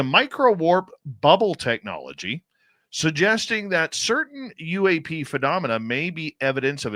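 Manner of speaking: emphatic press-release read; news read. Real, not acted. Host reading released study summary on air, news read. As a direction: deliver the release in punchy phrases.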